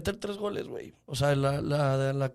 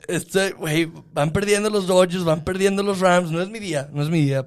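louder whiny hungover complaint; 2 semitones higher, 4 dB louder than usual. Real, not acted. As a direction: grumble miserably through a hangover. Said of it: "Güey, estoy crudo".

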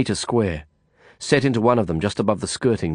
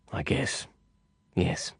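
whispered; 2 semitones lower, 9 dB quieter, slower than usual. A narrator's reading. Nervous hushed reply.

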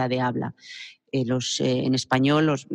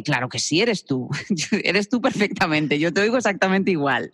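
mother reassuring; 3 semitones higher than usual. Retold or imitated. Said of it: "tu madre te dice".

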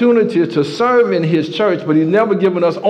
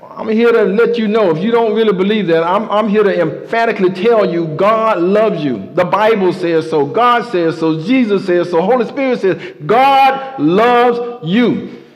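raised, driving preacher's voice; fervent preaching; 2 semitones higher than usual. Acted. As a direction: build it up for the congregation. Preaches with rising fervour.

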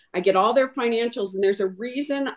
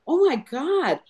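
mock panic. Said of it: "I want her to show him".

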